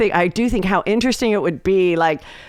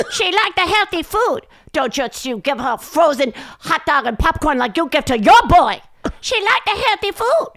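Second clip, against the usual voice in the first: high-pitched mock Asian accent, nagging instructions; mock Asian accent, high and insistent; imitating Asian mom; 13 semitones higher than usual. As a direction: lecture like the bossy mom on a voicemail, voice pushed way up. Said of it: "would do this bit about how her mom".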